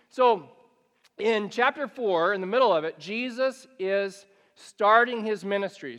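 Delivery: loud, driving sermon delivery; full-force preaching. Acted. Pastor to congregation, loud and driving. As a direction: preach it out to the room.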